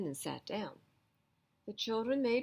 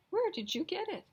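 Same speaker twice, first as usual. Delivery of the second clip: fancy lady voice; 13 semitones higher, 4 dB louder than usual. Acted. Lady admires fur coat.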